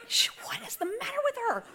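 lightly voiced embarrassed son. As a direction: play the embarrassed son, half laughing. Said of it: "he would've been like".

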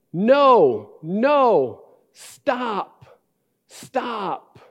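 put-on high wailing toddler cry of no, no, stop; imitating toddler screaming. Father imitating his two-year-old screaming at his brother, high and wailing. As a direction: play the two-year-old shrieking for help. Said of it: "screaming at the top of his lungs".

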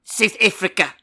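put-on a light South African accent, clipped ends; understated South African accent. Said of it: "South African accent".

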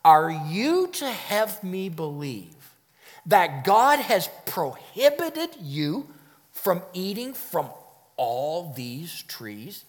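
slow, incredulous questioning; interrogative surprise. Shown as a demonstration. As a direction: draw it out in mock disbelief. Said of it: "Let me try to illustrate this for you".

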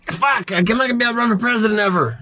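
high, laughing mock panic. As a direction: blurt it out through laughter. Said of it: "my brain goes".

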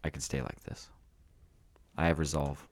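low, quiet robot voice. Pretend. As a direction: speak like a stiff robot. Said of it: "I will talk like a robot right here".

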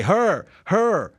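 high pointing mock accusation; finger-pointing squeal; accusing teen girl. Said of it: "they point at him and say".

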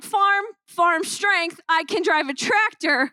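slow, deliberate farm-tough brag; mock tough boast. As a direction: sell the farm strength slowly. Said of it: "I was like".

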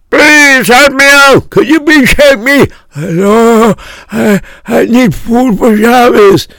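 high-pitched, drawn-out mock wail; screaming for help. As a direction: cry out like a desperate beggar at the door. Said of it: "and they would scream".

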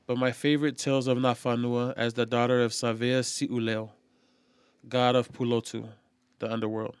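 storyteller reading voice; relishing a story. Acted. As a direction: read it like an old legend. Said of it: "storyteller voice ready".

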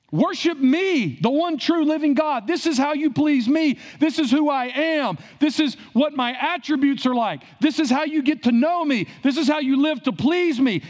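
lightly voiced divine command; preacher lightly voicing God declaring himself to Moses. Voicing God giving the law.

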